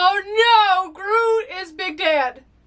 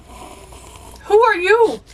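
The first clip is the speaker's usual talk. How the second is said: slow, drawn-out, higher wonder; surprised question; 6 semitones higher, much slower than usual. Real, not acted. Spotting a new character, slow surprised question.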